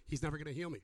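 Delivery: mumbled-down pessimism against the friends' push; defeated cripple. Acted. Acted doubting cripple answers friends.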